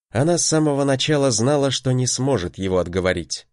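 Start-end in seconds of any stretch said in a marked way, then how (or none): none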